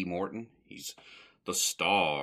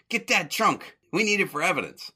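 high, loud comic command; mock lawman's order; 10 semitones higher, 4 dB louder than usual. Curly posing as G-man ordering men about, commanding. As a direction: call out an order as a pretend G-man.

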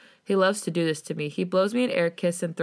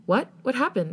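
higher, mildly startled questioning; sudden question; 6 semitones higher than usual. A narrator's reading. Friend suddenly asks what happened, mildly startled. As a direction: ask it abruptly, pitch lifted. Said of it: "Maddie asks suddenly".

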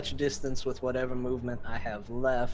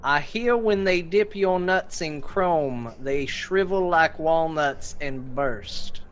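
raised-pitch taunt, only mildly yelled; mock taunting yell; 3 semitones higher than usual. Player insults the chainsaw orc in game, mock yelled taunt. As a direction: toss out an insult as a half-hearted yell. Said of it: "yell to him".

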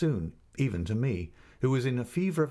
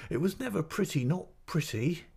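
coy denial; 8 semitones higher than usual. Acted. Mother coyly denies compliment.

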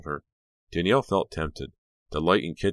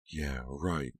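muttered; 6 dB quieter than usual. Acted. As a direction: mutter it under your breath. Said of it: "Dee muttered".

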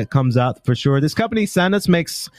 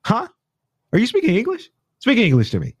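rude mock demand; 9 semitones higher, faster than usual. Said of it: "That's the rudest thing ever".

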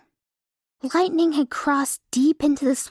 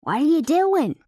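calling out; 5 semitones higher than usual. Acted. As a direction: call out after him. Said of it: "screamed as the words".

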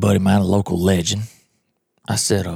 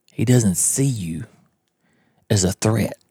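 whisper; slower than usual. Retold or imitated. Buddy explains turkey stalking hushed.

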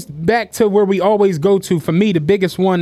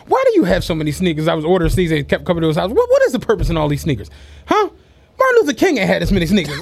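lightly voiced stern dad; 4 semitones lower, faster than usual. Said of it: "my dad was like".

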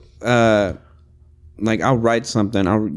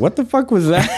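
incredulous laughing; 8 semitones higher than usual. Retold or imitated. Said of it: "it's like".

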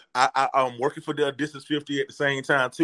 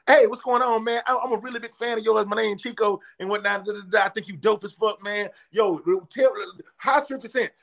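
higher, excited fan gushing; eager young fan; 5 semitones higher than usual. Retold or imitated. Young fan stopping a comedian, gushing high and eager. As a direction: play the starstruck young fan rushing his words.

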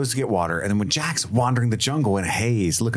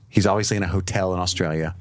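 attempted Aussie accent, fast; a quick try at an Australian accent; 3 semitones lower, faster than usual. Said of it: "way more New Zealand than Australian".

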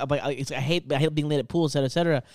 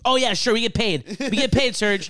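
higher-pitched sarcastic agreement; imitated mad sarcasm; 4 semitones higher than usual. Imitating his angry coworker on getting paid, mockingly sarcastic. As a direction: mimic an exasperated coworker, pitch lifted. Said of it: "He's so mad".

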